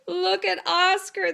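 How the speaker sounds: mocking cry. A narrator's reading. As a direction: point and jeer at him. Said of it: "they cried".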